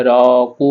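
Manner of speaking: "র" said full and rounded, "কু" held long; heavy ro. Shown as a demonstration. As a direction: thicken "র" towards "ro", stretch "কু". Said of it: "র এর উপর জবর থাকলে মোটা করে পড়তে হয়". ("র" মোটা করে, "কু" টেনে)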